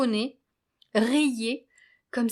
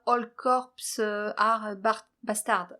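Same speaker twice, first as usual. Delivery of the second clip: English words read with a heavy French accent; slower than usual. Real, not acted. Spelling out ACAB for her viewers, in French-accented English. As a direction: say the English acronym the French way, stumbling a little. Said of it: "Désolée pour mon accent, euh, anglais".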